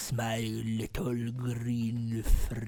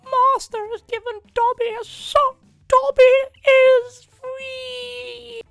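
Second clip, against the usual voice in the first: very high squeaky elf; Dobby voice; 7 dB louder, slower than usual. Retold or imitated. Dobby impression.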